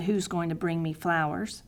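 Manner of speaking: quiet pitiful plea rising at the end; pitiful prayer. Retold or imitated. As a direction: ask it quietly like a sheepish child. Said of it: "my pitiful prayer".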